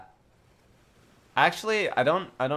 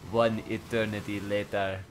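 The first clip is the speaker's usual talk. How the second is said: SpongeBob narrator; 5 semitones lower than usual. Acted. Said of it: "you sound like the SpongeBob narrator".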